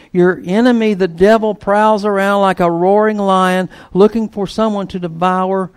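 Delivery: scripture reading. Acted. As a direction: read it as a rising exhortation. Reads scripture with music.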